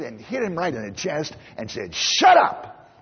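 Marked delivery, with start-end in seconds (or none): 1.9-2.9 sharp mock shout, much higher; high yelled shut up; retold yell. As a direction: bark it like the angry mother in the store. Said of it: "yelled at the kid".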